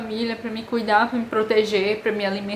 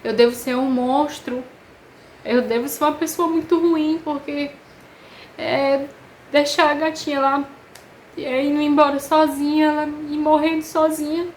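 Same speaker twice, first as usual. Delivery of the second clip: higher-pitched, pained self-reproach; choro relembrado; 4 semitones higher than usual. Retold or imitated. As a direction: retell a tearful confession, pitch raised. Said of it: "eu comecei a chorar". (desabafo choroso relembrado, voz mais aguda)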